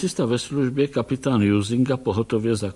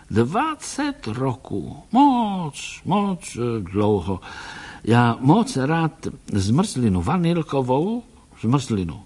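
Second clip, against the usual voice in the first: put-on slow, dreamy old-man voice, sometimes higher; wistful old doctor; 3 semitones higher, slower than usual. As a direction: reminisce slowly about Vienna. Doktor vzpomíná na Vídeň. (zasněný starý pán, pomalu)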